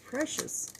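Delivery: breathy whisper, high and hushed. Real, not acted. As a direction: breathe the word softly to the listener. Tender aside after "you're precious.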